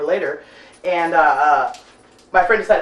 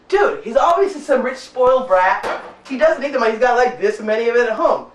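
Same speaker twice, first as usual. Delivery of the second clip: higher-pitched, animated arguing; acted exasperation; 5 semitones higher than usual. Storyteller arguing with guy in front seat over cash, exasperated. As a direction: argue your case to a buddy, pitch jumping up.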